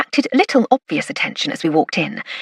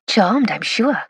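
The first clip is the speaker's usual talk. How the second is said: put-on cranked-up Welsh accent; 3 semitones higher, slower than usual. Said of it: "cranking up my accent".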